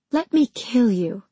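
mildly soothing villain. A narrator's reading. Villainess to the heroine as she draws the blade, soothing. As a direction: offer it as if a comfort. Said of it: "she said soothingly".

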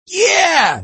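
loud, high cry of victory; triumphant yell. A narrator's reading. Tiger as his putt drops, triumphant yell. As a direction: yell it out in celebration. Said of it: "he yelled".

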